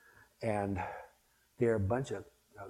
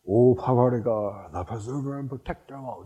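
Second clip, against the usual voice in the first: heartfelt prayer; 10 dB louder than usual. Retold or imitated. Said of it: "I would say it with a lot of feeling".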